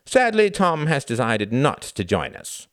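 high, loud mock regret; public announcement. A narrator's reading. Reginald excusing Tom to the family, airy announcement. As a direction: announce it brightly over the crowd.

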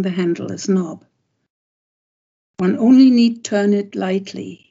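calm recital of the translated verse, line by line; poem reading. Acted. Sharing his translation with the interviewer, steady recital. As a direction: let each line land before the next.

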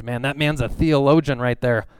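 lightly acted gushing praise, slowing on the degrees; mock admiration. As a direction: list the credentials with put-on awe. Mimicking people impressed by lofty credentials.

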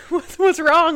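retold worry, pitched well up; mom's concerned question. Mom worried at daughter upset, retold.

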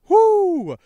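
high, loud "woo"; excited whoop. Real, not acted. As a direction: cheer like a hyped fan. Thrilled reaction to the reveal.

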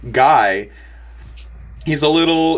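normal talking voice

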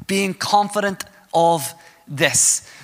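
each phrase spaced out with pauses; deliberate, weighty restatement; slow emphatic repeat. Shown as a demonstration. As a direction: drive the verse home slowly. Verse repeated slowly to drive home.

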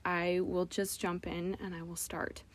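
soft unvoiced whisper. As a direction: whisper it to yourself. Quoting her own resolve to start.

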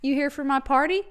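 loud, high party welcome; excited greeting. Retold or imitated. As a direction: greet them like the host. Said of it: "I'm like".

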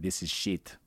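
lightly imitated French accent; French person. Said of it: "You get a French person cooking".

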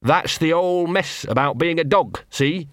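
lightly voiced scruffy street dog, chummy; a small mongrel wheedling a friend; Gaspode the dog. Scruffy dog to hidden wolf, lightly voiced.

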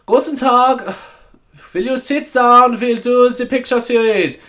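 high, slow German teacher impression; German accent. German teacher addressing her class, exaggerated German accent. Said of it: "she used to talk like".

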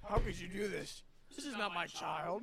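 hammed-up dismay; drawn-out mock disbelief; mock horrified parent. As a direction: plead like an aghast parent in a comedy bit.

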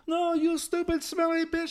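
high, loud mock yell; cabbie yelling. Cabbie yelling at the woman, high loud mock yell. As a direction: shout him down from the garage. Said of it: "And he goes".

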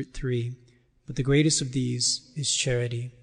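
measured, solemn reading of the epistle; scripture reading. Acted. Lector reading Corinthians aloud to the congregation, solemn and measured.

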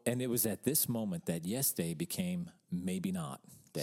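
low-pitched storyteller voice-over; mock narrator. Co-host narrating the dad's doomed dinner plan, low mock narrator. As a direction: drop low and narrate the fateful turn.

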